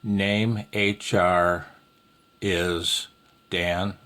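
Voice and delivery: slow, spaced call example; slow example phrase. Shown as a demonstration. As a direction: read the sample call out slowly. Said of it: "we'll say Dan".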